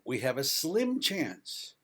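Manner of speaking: slow down and lean on "slim"; "slim" stretched out and stressed in a measured phrase. Real, not acted. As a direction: hit the word "slim" with deliberate weight. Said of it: "I emphasize the word slim".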